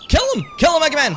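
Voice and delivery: kill shouted high and loud; urgent shout. Real, not acted. Cheering on Mega Man to kill the cops, shouting. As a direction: yell the order at Mega Man. Urging character to fight.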